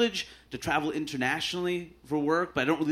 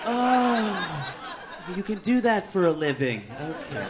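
polite surprise; 3 semitones higher, slower than usual. Retold or imitated. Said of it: "As if I said".

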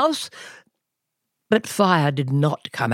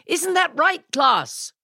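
much higher prodding question; high coach voice; 12 semitones higher than usual. A narrator's reading. Coach asks the class to agree, high and pushy.

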